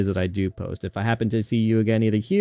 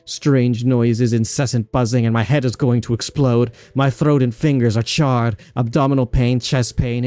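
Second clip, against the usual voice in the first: a lightly voiced girl in pain, rising louder; tormented girl; 4 dB louder than usual. Streamer reading a cursed girl's lines, a touch of agony. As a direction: list each ache like it's eating her alive.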